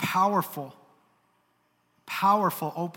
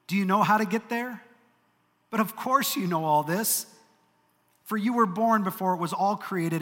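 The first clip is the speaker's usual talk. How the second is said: higher, louder, mocking divine questions; sarcastic God; 4 semitones higher, 3 dB louder than usual. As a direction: hammer Job with sarcastic questions. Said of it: "the sarcasm isn't even hidden".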